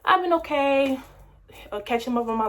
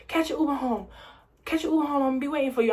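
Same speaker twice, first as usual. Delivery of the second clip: higher, soothing mom voice; mom's instruction; 5 semitones higher, faster than usual. Retold or imitated. Mom telling her crying daughter to get an Uber home, higher.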